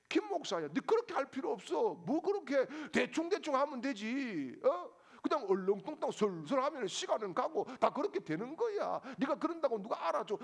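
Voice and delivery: tempter's voice. Retold or imitated. The tempter coaxing Pastor Kim to cut corners, chuckling. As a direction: sweet-talk him into slacking off, laughing. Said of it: "이런 유혹을 항상 언제나 받는다는 거예요".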